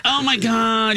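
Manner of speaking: mock whiny complaint; imitating a melodramatic kid. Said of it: "he's whiny".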